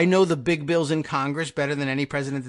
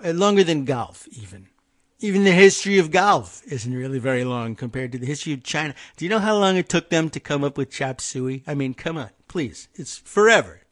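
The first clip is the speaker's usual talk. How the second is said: imitating Trump. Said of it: "that's Donald Trump here".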